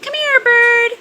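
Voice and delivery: high, sweet pet-calling voice; coaxing a wild bird. Real, not acted. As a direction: coax the bird to come closer. Owner calling pet bird over.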